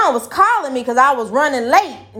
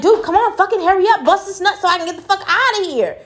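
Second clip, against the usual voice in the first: impatient urging; 9 semitones higher, faster than usual. Retold or imitated. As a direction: push him to hurry, voice pitched way up. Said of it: "and I'm just like".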